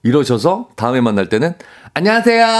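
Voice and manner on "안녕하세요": high-pitched, cutesy hello; cute greeting. Acted. Employee trying to please the boss, put-on cute. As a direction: put on a childlike, sweet greeting. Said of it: "이렇게 좀 귀엽게 인사를 했더니".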